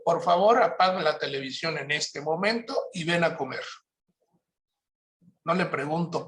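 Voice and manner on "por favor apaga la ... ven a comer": put-on firm, direct command to the child; a kind but firm order; direct instruction. Shown as a demonstration. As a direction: tell him plainly, no question. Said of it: "o directo".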